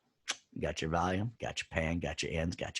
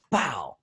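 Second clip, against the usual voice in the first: spoken mock pow impact; comic-book pow effect; vocal pow sound; 3 dB louder than usual. Shown as a demonstration. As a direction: punch out a cartoon pow. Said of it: "it didn't make the pow sound. That was me".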